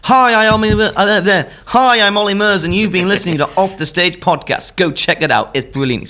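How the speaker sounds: high, loud, upbeat Essex-lad voice; impression of a pop singer. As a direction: pitch it up and sell it like a pop star. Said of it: "that's my best attempt at, uh, a singer".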